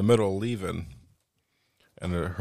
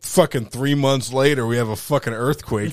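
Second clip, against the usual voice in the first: ordinary talk, nothing marked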